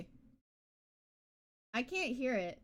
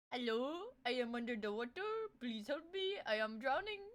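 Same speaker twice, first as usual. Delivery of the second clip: imitating drowning meme; 4 semitones lower, 9 dB quieter than usual. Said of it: "What the hell?".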